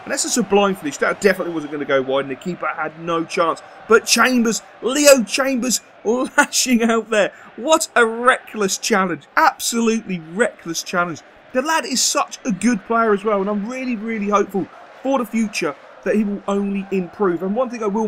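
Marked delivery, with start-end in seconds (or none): 3.9-12.5 louder, slow, half-laughing disbelief; loud laughing shock at a wild tackle; excited outburst. Real, not acted. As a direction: call out the foul with a laugh. Reacting to a reckless foul.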